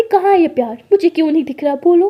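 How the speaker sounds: loud, pressing challenge; angry demand. Acted. Maya demands to see her partner's love, loudly angry.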